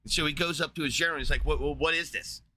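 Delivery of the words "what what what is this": freaking out. Retold or imitated. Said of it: "He's freaking out".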